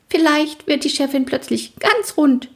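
high, giggly tease. A narrator's reading. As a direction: pitch it up with amusement. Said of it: "kicherte Schoko". (kichernd und hoch)

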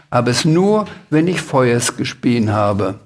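"Aber" as "Abes", "Feuer" as "Feues"; can't say R. A narrator's reading. Dragon qualifying its answer to the Sams, S for R in "Feuers". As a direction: put S for the final R in "Feuers". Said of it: "du kannst ja kein R sprechen".

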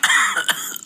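staged throat clearing cough; fake cough. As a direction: cough to sound sick. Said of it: "schniefend räuspern". (gespieltes Husten)

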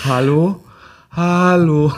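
loud calling hello into a bad line; to someone hard of hearing. Real, not acted. Connection drops, calling into line.

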